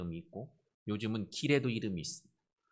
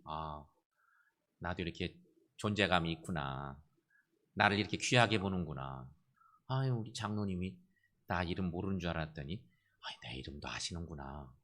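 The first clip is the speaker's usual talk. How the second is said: pleased inner voice; 4 semitones lower than usual. Acted. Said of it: "속으로 아이들이 좋아하는 거예요". (속으로 흐뭇해하는 아이의 혼잣말)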